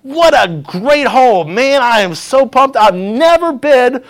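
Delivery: acting out a thrilled golfer; pumped. Golfer celebrating his first-hole birdie, pumped. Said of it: "So he is just pumped".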